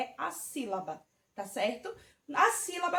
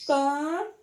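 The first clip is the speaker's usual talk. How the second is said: Panela split into pa-ne-la, louder; syllables counted out; 5 dB louder than usual. Shown as a demonstration. Teacher counts syllables for the children, louder. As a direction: clap out each syllable of Panela. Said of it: "Também são três".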